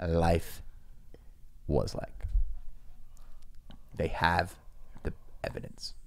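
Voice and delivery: hushed. Real, not acted. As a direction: softly, drop to a whisper. Conspiratorial reveal of the proof.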